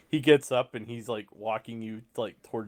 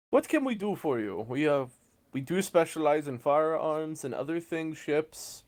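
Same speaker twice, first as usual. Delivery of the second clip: high-pitched, welcoming salesman; game master's eager shop clerk; salesman in character; 6 semitones higher than usual. Acted. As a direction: greet a customer in a high sales voice.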